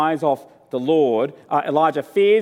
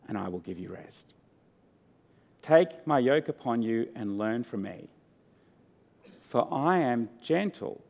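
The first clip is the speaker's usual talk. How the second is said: soft, tender invitation, softer; gentle voice of Jesus; 3 semitones lower, 5 dB quieter than usual. Acted. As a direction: quietly invite the weary to rest. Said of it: "Can you hear his gentle voice?".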